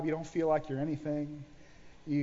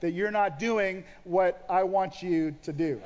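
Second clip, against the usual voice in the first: frustrated complaint; slower than usual. Retold or imitated. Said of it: "I didn't say it like that".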